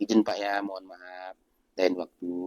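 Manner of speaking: soft apologetic refusal; gentle refusal. Shown as a demonstration. Preacher shows kind words instead of scolding, soft and apologetic. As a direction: decline him kindly. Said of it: "Jangan pula di- dimarah-marahi".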